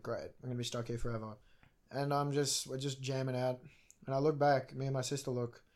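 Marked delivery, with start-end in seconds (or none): 0.0-1.3 low, soft deadpan complaint; resigned grumble. Retold or imitated. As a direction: grumble to yourself, giving up. Stuck at a red light.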